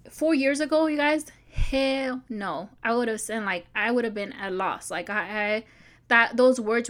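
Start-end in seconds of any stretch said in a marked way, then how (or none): 0.1-2.7 louder, slower, hell no stretched out; emphatic outburst. Real, not acted. Telling viewers she was once broke, loud and emphatic. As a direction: insist it would never have happened, slow and loud.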